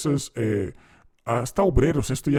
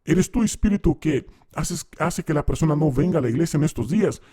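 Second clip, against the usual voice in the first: pastor interrogating demon; 4 semitones higher than usual. Retold or imitated. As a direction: grill the spirit like a preacher on stage.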